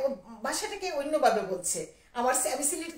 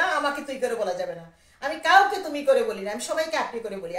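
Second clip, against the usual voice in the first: louder, indignant objection; retold annoyance; 6 dB louder than usual. Telling the lyricist off for informal address, retold indignation. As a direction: object firmly, voice pushed louder. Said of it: "আমি কি রাগ না".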